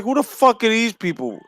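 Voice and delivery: blurting it out in disbelief; incredulous quote. Retold or imitated. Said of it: "I was like".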